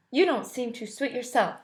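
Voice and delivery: Milk firing back at Waffle; sassy retort. Acted. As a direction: talk back with sass. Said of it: "said Milk".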